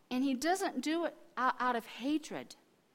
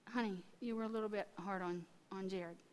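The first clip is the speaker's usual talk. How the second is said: gentle correction; 3 semitones lower, 8 dB quieter than usual. Retold or imitated. Retold gentle correction of husband.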